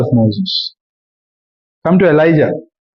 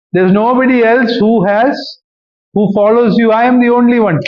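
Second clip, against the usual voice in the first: self-pitying whine; 6 semitones higher than usual. Acted. Elijah complaining he's alone.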